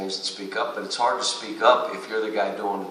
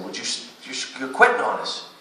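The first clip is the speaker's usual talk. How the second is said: players calling out; 9 semitones higher than usual. Retold or imitated. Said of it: "Then they start saying".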